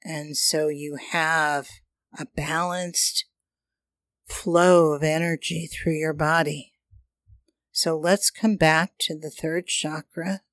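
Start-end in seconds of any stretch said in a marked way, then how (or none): 2.2-10.4 airy breathy mystical healer. Acted. Guides hand on chakra, breathing.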